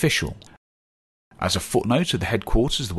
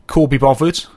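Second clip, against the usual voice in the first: Black Country "Call be bothered", vowels broad and louder; Black Country "Call be bothered" said louder and higher; Black Country dialect; 4 semitones higher, 7 dB louder than usual. Shown as a demonstration. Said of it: "cannot be bothered".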